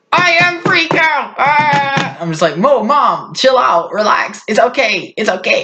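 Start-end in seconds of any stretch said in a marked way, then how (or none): 0.1-2.2 put-on high, drawn-out Russian-accented wail; hammed-up panic in a Russian accent; freaking-out Russian mom. Mom answering her worried child, frantic Russian accent. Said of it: "she's just freaking out". 2.6-5.6 high, urgent pleading; mock frantic soothing. Child telling mom to chill out, high frantic pleading.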